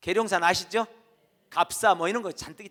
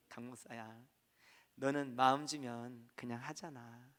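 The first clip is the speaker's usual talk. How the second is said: God's voice; 6 semitones lower, 8 dB quieter, slower than usual. Retold or imitated. God speaks to pastor.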